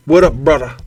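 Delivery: imitating a chummy street greeting; casual bro greeting. Shown as a demonstration. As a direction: say it like a too-friendly stranger. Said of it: "Oh, in that way?".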